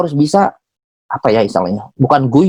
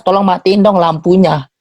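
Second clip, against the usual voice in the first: polite rephrase; 5 semitones higher than usual. Retold or imitated. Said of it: "Message dia jelas".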